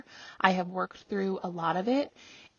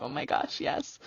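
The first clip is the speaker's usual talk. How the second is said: whisper; 5 semitones lower, 4 dB quieter than usual. Retold or imitated. Listeners' imagined whisper agreement.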